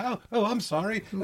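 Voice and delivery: high, very soft stammered apology; Hugh Grant mumbling. Retold or imitated. Timid boyfriend apologising to his scolding girlfriend, mumbling. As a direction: mumble it meekly, stumbling at the start. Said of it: "Hugh Grant would be mumbling and stuttering away".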